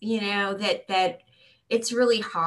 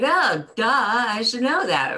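mock duh; 5 semitones higher, 7 dB louder than usual. Mocking everyone's obvious realization.

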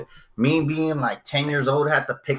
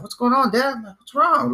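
put-on kid voice; 8 semitones higher than usual.

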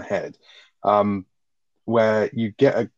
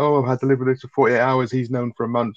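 higher, whiny mock of Skylar; mocking self-pity; 4 semitones higher than usual. Host mocking Skylar making it all about her, whiny. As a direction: overplay her complaint to mock her. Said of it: "the way she's making it all about her".

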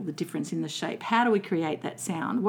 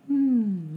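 gentle humming. Shown as a demonstration. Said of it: "So little gentle humming".

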